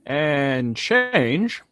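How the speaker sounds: low, drawn-out villain purr on change; a lightly voiced cartoon devil; slow sinister tease; Him from Powerpuff Girls. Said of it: "It's him. That's the voice I was doing. Him from Powerpuff Girls".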